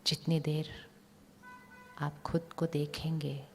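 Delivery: calm, even voice with long pauses; guided meditation. Real, not acted. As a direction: guide their focus gently inward, phrase by phrase. Leads visualisation of inner light.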